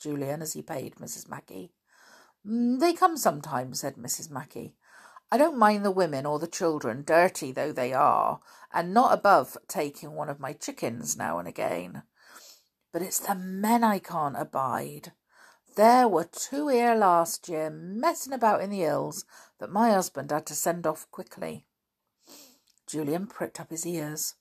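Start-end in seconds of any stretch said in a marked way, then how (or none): 2.5-3.8 higher farm-wife voice; a chatty country farm woman; lightly voiced farm wife, homely and gossipy; Missus Mackey. 5.3-21.7 a chatty country farm woman; lightly voiced farm wife, homely and gossipy; Missus Mackey. Farm woman complains about circus men.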